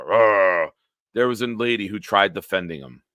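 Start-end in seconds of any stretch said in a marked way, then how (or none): 0.0-0.7 imitated fan groan. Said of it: "the Buffalo fans were".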